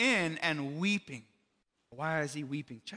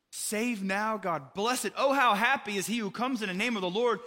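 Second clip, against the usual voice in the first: higher, louder crowd cheer; joyful acclaim; 4 semitones higher, 4 dB louder than usual. Retold or imitated. The crowd hailing Jesus as king, joyful and louder. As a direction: call it out like a rejoicing crowd.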